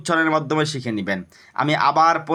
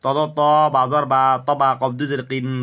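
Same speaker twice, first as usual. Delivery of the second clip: recitation drill. Shown as a demonstration. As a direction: stretch each final syllable, pausing between units. Leads Arabic spelling drill.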